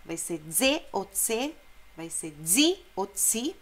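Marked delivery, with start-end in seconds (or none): 0.5-1.5 ze as voiced DZE, then unvoiced TSE; explosive Z. Shown as a demonstration. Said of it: "o Z é explosivo". 2.4-3.5 zi as voiced DZI, then unvoiced TSI; explosive Z. Shown as a demonstration. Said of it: "o Z é explosivo".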